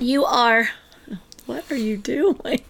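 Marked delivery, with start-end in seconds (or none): 1.5-2.6 hushed, slowed whisper. Real, not acted. Asking the co-host mid-bit, whispered. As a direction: whisper it as a puzzled aside.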